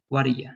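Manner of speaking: "what are you" ending in a weak "ya"; reduced "you". Shown as a demonstration. Teacher connecting the words, reduced final vowel. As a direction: let "you" relax into "ya": "waddaya". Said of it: "it's more like "yeah".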